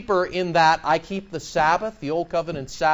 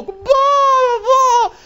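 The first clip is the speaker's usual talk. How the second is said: mocking blah; 7 dB louder than usual. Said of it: "Heck yes, I'm mocking".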